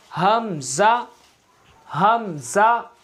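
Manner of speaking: हमज़ा stretched slowly, throat sound held; drawn-out hamza. Shown as a demonstration. Teacher drilling students on हमज़ा, slow and drawn out. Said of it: "चले मश्क करते हैं".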